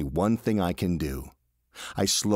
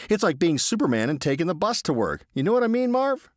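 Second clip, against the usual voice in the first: a hint of a restless driver, pitched up; lightly voiced eager George; 7 semitones higher than usual. A narrator's reading. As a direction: persuasive buddy voice. George's voice in the story.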